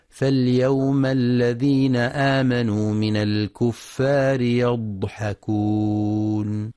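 slow, drawn-out melodic Quran recitation; tajweed recitation. Acted. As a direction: chant the verse slowly, stretching the vowels. (تلاوة مجودة بطيئة)

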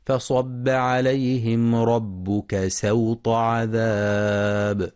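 slow melodic tajweed chanting; Quran recitation. Shown as a demonstration. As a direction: chant the verse slowly, drawing out vowels.

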